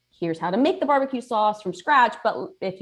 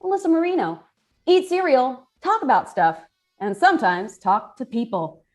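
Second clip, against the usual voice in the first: bright upbeat show opener; show host intro; 3 semitones higher than usual. Acted. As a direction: welcome the viewers like a host. Host opens cereal show.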